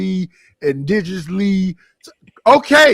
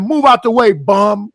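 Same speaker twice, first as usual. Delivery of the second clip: mock brusque Brooklyn woman; 2 semitones higher, 5 dB louder than usual. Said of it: "when she knows she be saying".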